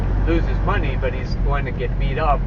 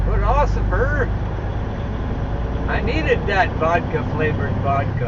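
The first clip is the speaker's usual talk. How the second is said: mock drunk plea; 3 semitones higher than usual. Pleading with trooper, drunk slur.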